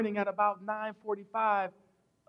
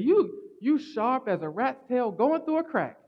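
Southern great-grandmother; 3 semitones higher than usual. Retold or imitated. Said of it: "She said".

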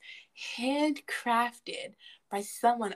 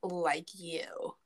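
whispered playful jab; teasing whisper; 4 dB quieter than usual. Real, not acted. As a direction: whisper the tease under your breath. Teasing friend about basic name.

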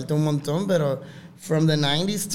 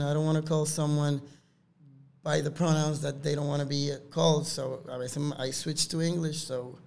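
spanglish. Real, not acted. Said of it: "me quedo hablando Spanglish".

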